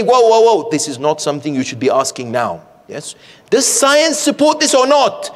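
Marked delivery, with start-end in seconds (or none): 0.0-2.6 protective parent. Retold or imitated. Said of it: "protective, and you say".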